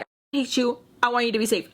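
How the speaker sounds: increasingly high-pitched fretting; retold freaking out. Texting missing Sam, mock freaking out. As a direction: swing between cross and worried, pitch climbing. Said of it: "freaking out".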